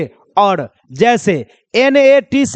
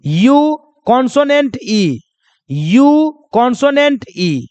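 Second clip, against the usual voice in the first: slow spelled pattern. Shown as a demonstration. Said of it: "जैसे देखो".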